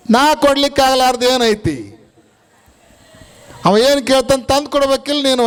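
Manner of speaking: half-acted rebuke, rushing the words; scolding father. Father scolding his wife over the crying son, mildly angry. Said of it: "ಅಂತ ಜಬರಿಸಿದ".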